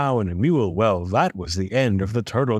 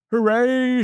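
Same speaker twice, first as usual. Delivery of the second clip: high, drawn-out cheer; exultant storybook shout; triumphant shout; 11 semitones higher than usual. A narrator's reading. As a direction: cheer like a king on top of the world. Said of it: "shouted Yertle".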